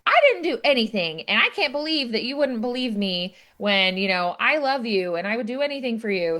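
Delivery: a hammed-up wounded lover; mock upset. Zerlina hurt that her fiance won't believe her, mock upset. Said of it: "So she gets kind of upset".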